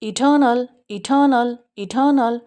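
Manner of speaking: इटर्नल without the r, ठी stressed; British eternal. Shown as a demonstration. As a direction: say इटर्नल as इटनल, r dropped. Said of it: "इसको जल्दी से पढ़ देते हैं".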